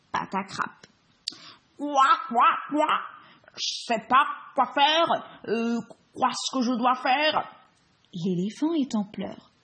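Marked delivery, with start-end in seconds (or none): 1.8-7.5 croaky toad voice. Acted.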